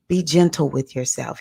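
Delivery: lightly imitating a calming elder; a touch of soothing gentleness. Godfather's famous saying to his godchildren, gently calming. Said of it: "He had this real super calming voice".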